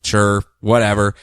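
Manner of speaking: grudgingly agreeing to save the death cult; begrudging Guy. Retold or imitated. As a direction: say it like you'd rather not. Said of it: "begrudgingly goes".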